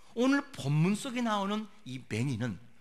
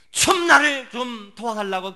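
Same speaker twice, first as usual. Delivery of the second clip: raised, pleading call; crying out; 5 semitones higher, 11 dB louder than usual. Retold or imitated. Suffering blind man calling to Jesus for help, crying out. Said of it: "그렇게 예수를 향해 외쳤더니만".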